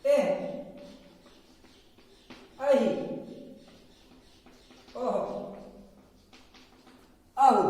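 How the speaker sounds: "एह, अहि, ओह, अहु", each vowel ending in breathed h; visarga pronunciation. Shown as a demonstration. Teacher drilling visarga on each vowel, pronounced demonstration. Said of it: "सारे स्वर के साथ इसका उच्चारण".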